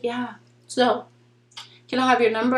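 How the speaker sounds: a hint of a flat, casual guy; imitating him exactly. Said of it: "And that's exactly how he said it".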